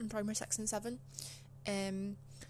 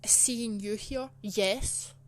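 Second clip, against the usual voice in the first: curt teacher; 5 dB louder, much slower than usual. Retold or imitated. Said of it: "And then she said".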